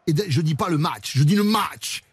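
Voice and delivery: lightly hammed southwestern French accent; half-time interviewer with a Sud-Ouest twang. Host interviews the rugby coach in a mock southwestern accent. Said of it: "Je vais le faire avec l'accent".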